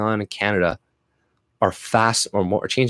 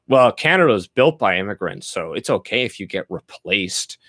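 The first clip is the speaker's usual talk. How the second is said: lightly put-on smug liberal voice, trailing down; mocking a liberal; 3 semitones lower than usual. Mocking the answer liberals give him, lightly put-on smug voice. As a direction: parrot the liberal line with a sneer. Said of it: "when liberals give me that answer".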